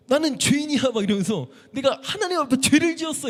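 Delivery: high, loud cry of guilt; crying out in terror. Retold or imitated. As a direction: blurt out the confession, overwhelmed. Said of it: "이게 갑자기 딱 나오는 거예요".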